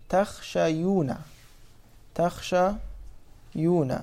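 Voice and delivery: "تخشيون" said slowly with a clear ya, taxshayuna; slow root form demo. Shown as a demonstration. Teacher showing students the original form, slow. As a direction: draw out "تخشيون" so the ya is heard. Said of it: "أصله".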